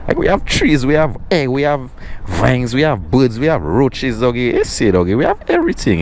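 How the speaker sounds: high, punchy list with each have hit hard; rising pride; proud excited listing. Real, not acted. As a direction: show off everything the island has. Bragging about island nature.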